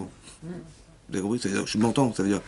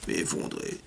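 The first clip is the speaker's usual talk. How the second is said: "effondré" breathed out as a whisper; whispered repeat; 7 semitones lower, 12 dB quieter, much slower than usual. Retold or imitated. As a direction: drop the echo of "effondré" to a whisper. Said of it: "Il était en pleurs". (« effondré » répété dans un souffle)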